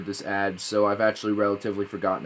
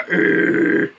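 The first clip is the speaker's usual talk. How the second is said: imitated thunder crack; 6 dB louder than usual. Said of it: "I heard, like".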